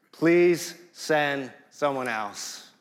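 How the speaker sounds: slow, careful and polite request; polite plea. Retold or imitated. Moses politely asking God to send someone else. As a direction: ask very politely, slowly. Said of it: "he says it so politely".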